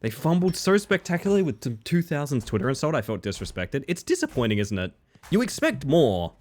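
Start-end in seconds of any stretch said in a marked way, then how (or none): 5.3-6.3 slow, weighted complaint; drawn-out disappointed point; slow emphatic. Real, not acted. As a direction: lean on each word, slowly.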